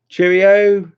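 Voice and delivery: Cheerio called out high and loud; bright-pitched goodbye call on Cheerio; sing-song farewell. Real, not acted. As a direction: call Cheerio out to a departing friend. Calling goodbye to a viewer.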